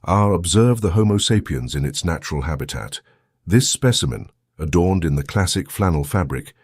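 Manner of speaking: lightly voiced nature documentary narrator; hushed, measured wildlife narration, lightly done; David Attenborough. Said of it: "As if narrated by Sir David Attenborough".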